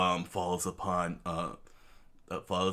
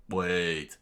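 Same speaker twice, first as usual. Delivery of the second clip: mild mock yell; 4 dB louder than usual. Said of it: "the king screamed out".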